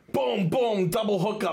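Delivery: thrilled retelling of sudden action; excited play-by-play. Retold or imitated. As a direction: fire off each hit with a rush of excitement. Re-enacts sudden fish strikes.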